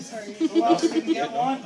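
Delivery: high, loud, slow call across the room. Real, not acted. Host calling out across room.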